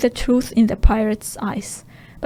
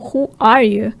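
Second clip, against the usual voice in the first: angry demand; 6 dB louder than usual. Acted. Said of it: "nearly choked because he was so angry".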